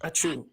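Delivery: a real sneeze. Real, not acted. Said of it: "That was close".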